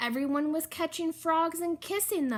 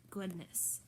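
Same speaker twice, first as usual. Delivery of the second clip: soft sigh; 7 semitones lower, 14 dB quieter than usual. Acted. Sighing aside to listeners.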